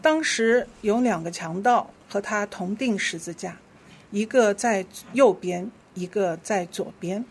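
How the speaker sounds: measured, clearly phrased Bible reading; scripture reading. Real, not acted. Leader reads Scripture to the congregation, measured scripture reading. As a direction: lead the congregation through the verse.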